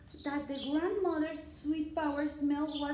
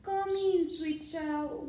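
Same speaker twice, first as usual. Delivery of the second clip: higher, louder sweet granny; grandmother voice; 4 semitones higher, 5 dB louder, slower than usual. Acted. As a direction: call out like a trusting granny. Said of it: "She said".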